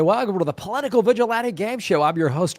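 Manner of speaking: game show host voice. Pretend. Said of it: "How's my game show host voice sounding?".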